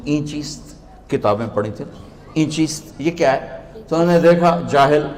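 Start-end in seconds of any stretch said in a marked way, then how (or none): 0.1-3.7 soft, guileless mock question; naive question. Barefoot dervish asking the scholar about books, naive question. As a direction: ask softly, as an innocent villager would. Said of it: "बड़े भोलपन में कहते हैं".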